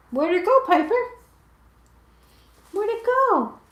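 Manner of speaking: high teasing voice for the dog; high sing-song game with a pet; playful pet talk. Real, not acted. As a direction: tease the puppy about the hidden ball. Playing ball with her dog.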